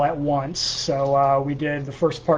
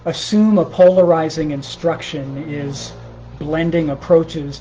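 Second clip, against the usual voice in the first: measured, deliberate poem recital; poetry reading. Acted. Poet reading improvised morning poems to a livestream, measured recital. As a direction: read it line by line, pausing between phrases.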